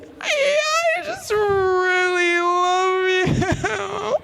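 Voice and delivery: high, very slow, tearful gush; sobbing love confession to a celebrity; retold sobbing. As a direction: choke out the words through happy tears. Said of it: "'Cause I'm sobbing".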